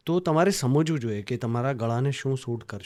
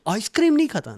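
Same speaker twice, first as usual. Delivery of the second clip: mock surprise; 9 semitones higher, 7 dB louder, faster than usual. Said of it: "લોકો એમ કહે છે".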